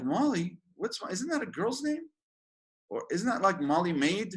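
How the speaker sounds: mock disbelief, voice shooting up; incredulous. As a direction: pitch jumps high on girl's name. Mocking disbelief at a nickname.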